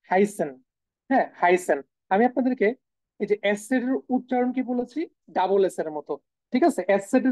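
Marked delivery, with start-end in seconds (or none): 0.1-1.8 হাইসেন with a sharp S sound; German verb. Shown as a demonstration. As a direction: say হাইসেন, double S. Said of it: "একটা verb এখানে দেওয়া আছে". (হাইসেন double এস দিয়ে)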